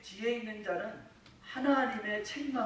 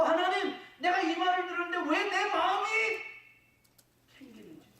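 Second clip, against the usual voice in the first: mock prayer; 9 semitones higher than usual. Kneeling believer asking God why his heart is uneasy, pleading prayer. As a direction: pray it as if kneeling before God. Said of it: "하나님 앞에 나가서 무릎 꿇고".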